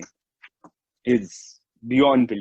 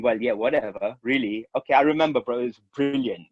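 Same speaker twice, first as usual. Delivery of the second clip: sarcastic. Retold or imitated. Speaker humouring the insistent voice at night, sarcastic. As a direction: brush it off with mock agreement. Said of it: "I was making this sarcastic comment".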